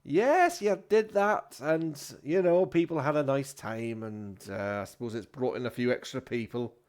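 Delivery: high drawn "yes", settling down; grudging landlord. Acted. Landlord admitting people had a nice time, grudging. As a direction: concede it bit by bit.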